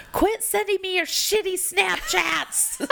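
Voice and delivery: high exasperated yell across the office; mock shout. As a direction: holler it across the room, laughing. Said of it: "hear me from across the office".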